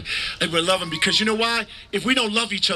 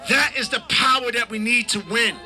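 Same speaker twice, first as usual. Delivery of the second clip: stretched-out rousing call to the crowd; rally shout; 4 semitones higher than usual. Real, not acted. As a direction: lift the crowd with every word.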